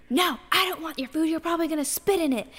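high-pitched mock indignant refusal; retold huge fit. Friend imitates a Karen refusing her food, mock outraged. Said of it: "just throwing a huge fit".

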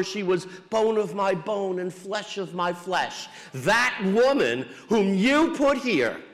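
slow, emphatic finger-pointing voice; blaming Adam. Acted. Adam answering God, slow and accusing. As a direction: lean hard on that woman, dodging the blame.

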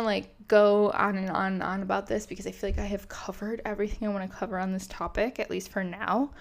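breathless, rushing the words; talking on the last of the breath; running out of air. Real, not acted. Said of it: "And I am running out of breath".

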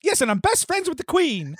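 high, laughing sarcasm; sarcastic laughing. Acted. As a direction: laugh through the mock boast. Sarcastic quip while laughing.

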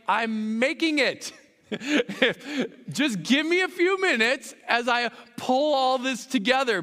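patient reply through laughter; wife, laughing. Retold or imitated. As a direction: answer gently while laughing. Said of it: "She's like".

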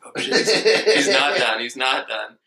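alarmed, laughing through it; mock alarm, laughing. Retelling the shower story, laughing mock alarm. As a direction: panic a little, then crack up. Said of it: "And I'm like".

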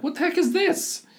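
sudden high squeak of disbelief; baffled outburst. Retold or imitated. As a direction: blurt it out, totally thrown. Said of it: "I'm like".

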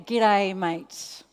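"G'day, mate" in an Australian accent, loud on "G'day,"; Australian greeting. Shown as a demonstration. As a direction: demonstrate the Australian "G'day," then let "mate." fall away. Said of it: "Do you all know how to speak Australian?".

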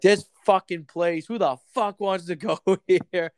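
slow, griping mock rant with a laugh; irritated traveller grumbling at the airport; mouthy rant. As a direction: mouth off about the place, half laughing. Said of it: "I just start getting mouthy".

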